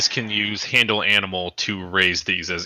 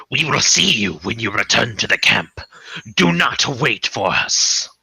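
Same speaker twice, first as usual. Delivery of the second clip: wolf mother's voice. Acted. Wolf mother leaving the party at camp, put-on stately voice. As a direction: give a stately parting instruction as a beast.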